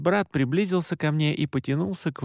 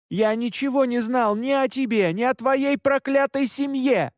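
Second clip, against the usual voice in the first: yelling back; 10 semitones higher than usual. Acted. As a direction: throw it back at her full force. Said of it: "заорал в ответ я".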